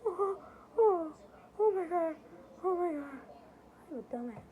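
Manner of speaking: high, squeaky words through laughter; helplessly laughing at yourself. Real, not acted. Laughing at realizing who it is.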